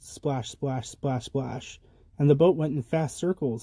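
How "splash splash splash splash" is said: hushed splash sounds, dropped right down; soft splashes. A narrator's reading. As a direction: let each splash fall softly. Quiet sound words for rowing.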